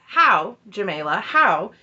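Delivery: each HOW punched loud, name dropped back; mock-demanding, hit both HOWs hard; exasperated challenge. Acted exasperated challenge to mother-in-law.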